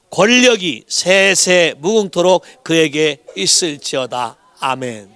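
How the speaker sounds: measured, declaimed Bible reading; scripture reading. Acted. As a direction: read the verse out firmly for a congregation to follow. Reads scripture aloud with congregation. (또박또박 힘주어 읽는 성경 낭독)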